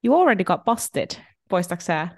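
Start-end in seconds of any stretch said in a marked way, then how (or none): 0.0-1.1 sassy mock scolding. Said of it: "Sit mä se".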